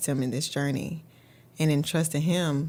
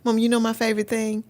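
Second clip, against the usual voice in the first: put-on slightly higher little-girl question; lightly voiced daughter teasing out a question; imitated five-year-old; 5 semitones higher than usual. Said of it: "she literally says all the time".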